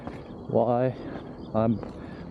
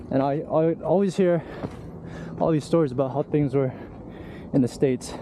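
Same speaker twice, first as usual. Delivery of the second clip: out of breath; 3 semitones higher than usual. Real, not acted. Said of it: "Sorry if I'm breathing heavily".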